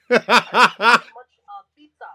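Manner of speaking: mock pop idol answering an interview; K-pop interviewee. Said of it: "the guy in the K-pop group".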